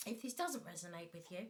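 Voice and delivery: normal talking voice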